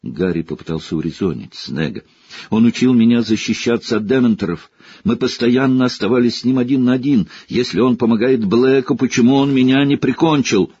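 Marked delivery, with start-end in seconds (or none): 2.5-10.7 louder, fast, rising; boy pleading with teacher, urgent; urgent plea. Acted. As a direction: argue desperately. Harry pleading with Snape.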